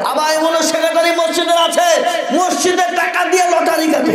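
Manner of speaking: high, sustained preaching pitch; denouncing. Real, not acted. Preacher exposing secretary gambling mosque money, high denunciation. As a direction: hold the voice up high in accusation.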